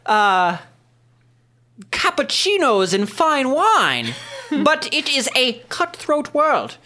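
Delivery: smooth, slow aristocrat; noble businessman voice. Acted. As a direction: purr like a sly noble. GM voicing noble character.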